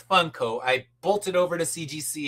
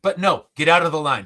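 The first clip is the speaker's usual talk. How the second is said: retold yell; 6 dB louder than usual. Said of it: "So he just start yelling at me".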